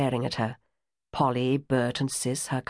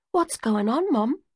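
gentler; 7 semitones higher than usual. Acted. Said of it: "Polly's voice was gentler now".

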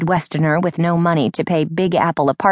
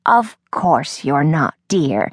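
reassuring whisper; 3 semitones lower, slower than usual. Acted. Nana soothing Emily.

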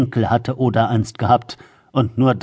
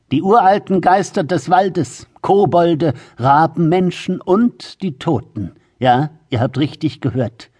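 raised crone voice telling a ghost tale; ominous old woman; 3 semitones higher than usual. Acted. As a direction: build the dread for frightened children. Grandmother scaring the children. (unheilvolle Großmutter)

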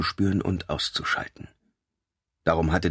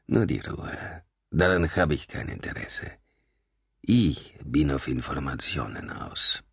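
soft amused calm; 4 semitones lower, 3 dB quieter than usual. A narrator's reading. Nico laughs softly, calms them.

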